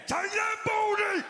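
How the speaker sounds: high, loud, slow triumphant yell; gleeful kid shout. Retold or imitated. Child attacking dad in the car, high gleeful shout. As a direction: crow it at your victim. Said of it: "I do a Chinese burn".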